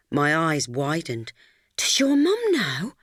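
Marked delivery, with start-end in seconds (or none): 1.8-3.0 unvoiced, higher, slow whisper; girl whispering in alarm to her friend; shocked whisper. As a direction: whisper it as if someone might hear. Shocked secret question to friend.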